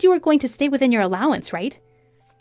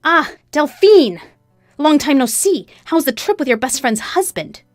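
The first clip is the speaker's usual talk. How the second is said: loud, lifted, falsely cheerful greeting; mock-friendly taunt; 5 semitones higher, 7 dB louder than usual. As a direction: needle her with fake friendliness. Wife taunts the mistress.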